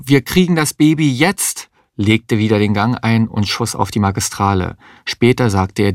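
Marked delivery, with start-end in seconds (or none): 0.0-1.7 higher, urgent push; insist, no waiting; urgent insistence. A narrator's reading. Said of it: "rief Mario". (drängend, höher)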